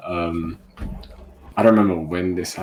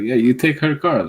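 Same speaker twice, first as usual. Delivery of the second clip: raised, insistent mock accusation; accusing customer; 7 semitones higher, 6 dB louder than usual. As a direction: imitate an accuser insisting, high and loud. Acts out member repeating the accusation.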